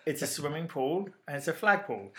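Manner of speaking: pool with oo, pole with oh, kept apart; measured contrast of POOL and POLE; distinct pronunciation. Shown as a demonstration. Co-host proving the words differ, each vowel kept distinct. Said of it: "They all sound markedly different".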